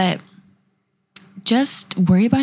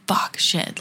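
whispered curse; 5 dB quieter than usual. Retold or imitated. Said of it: "then I'm like".

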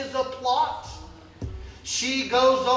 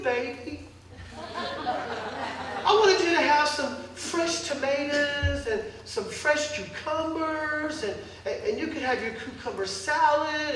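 whiny husband. Acted. Ahab whining to his wife.

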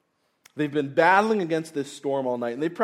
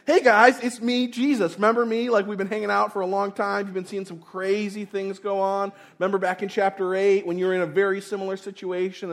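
mock casual Jesus greeting; 6 semitones higher than usual. Preacher mocks a casual greeting from Jesus, high and breezy. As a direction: play it like a chummy friend dropping by. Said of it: "no, that's not his greeting to them".

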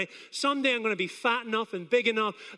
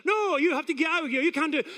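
mildly raised, higher referee's order; scolding referee; 4 semitones higher, faster than usual. Retold or imitated. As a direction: imitate a referee ordering someone out. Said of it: "the referee will go".

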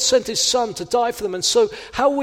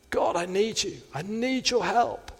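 softer, earnest plea to God; quiet sincere prayer; 7 dB quieter than usual. Real, not acted. Preacher praying before preaching, soft and earnest. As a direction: pray it humbly and softly. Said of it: "Every time I come to preach, I say".

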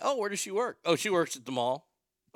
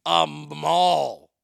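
incredulous; 10 dB louder than usual. Real, not acted. Scoffing at a mall job.

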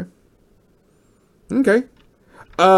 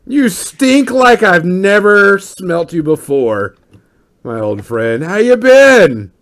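slow, drawn-out boisterous welcome; hearty greeting; 2 semitones higher, slower than usual. Acted. Old friend greeting with a big hug, hearty.

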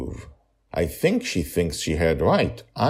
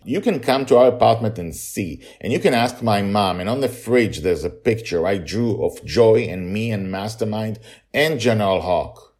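put-on upset child voice; 5 semitones higher, 5 dB louder than usual. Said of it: "upset and raises his voice".

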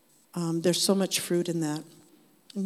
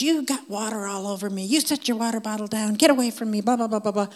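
raised, higher-pitched imitation of a mad man; mock angry rant; 4 semitones higher, 3 dB louder than usual. Angry man scolding a stranger over spilled water, mock rant. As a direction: play-act an irritated telling-off. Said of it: "he's mad and he's cursing".

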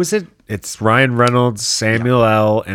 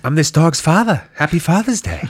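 movie star voice; 9 semitones higher, 3 dB louder than usual. Pretend. Mock actor in dog movie.

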